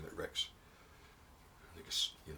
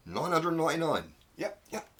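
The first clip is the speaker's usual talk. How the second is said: climactic count; 9 semitones higher, 7 dB louder than usual. Acted.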